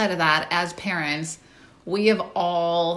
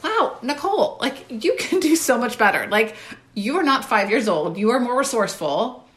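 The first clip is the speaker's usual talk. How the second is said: self-scolding; 4 semitones higher than usual. Retold or imitated. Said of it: "And I thought".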